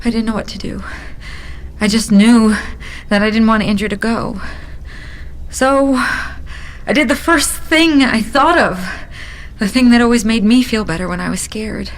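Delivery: rising fear pushing through; desperate. Acted.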